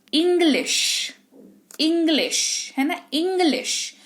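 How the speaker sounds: इंग्लिश with a short, clipped i; short i demo. Shown as a demonstration. Teacher demonstrating short i in इंग्लिश. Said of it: "आवाज में थोड़ा सा ठहराव आता है".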